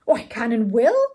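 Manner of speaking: loud, emphatic declaration; proclaimed. A narrator's reading. Eager pupil accepting the lordship's training fee, proclaimed loudly. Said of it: "proclaimed Mister Saltina".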